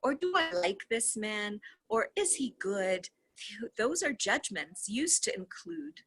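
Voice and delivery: steady, even reading of a dialogue; reading a transcript aloud. Acted. Reader reads the call transcript to viewers, steady reading voice. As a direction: read the call text out, voicing both sides lightly.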